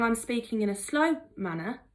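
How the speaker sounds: deliberately measured pace; a slightly slowed, careful demonstration. Shown as a demonstration. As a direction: ease off and space the words out. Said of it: "I've slowed down what I'm saying".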